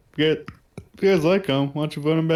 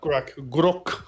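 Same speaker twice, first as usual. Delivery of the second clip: Grok tried with a British vowel; British accent. Shown as a demonstration. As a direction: say Grok two ways, the second British. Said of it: "pronounce it with a British accent".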